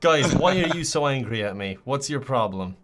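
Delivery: flat robotic text-to-speech voice; flat translator device voice. Acted. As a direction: read it like a machine translator. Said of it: "now you sound like Google Translator".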